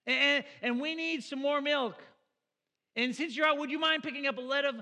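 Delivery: calling loud and high up the stairs to his wife; husband hollering chores up to his wife, loud and high; mock yelling upstairs to wife. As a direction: shout the errand list up to the bedroom. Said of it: "I just yelled up to her like".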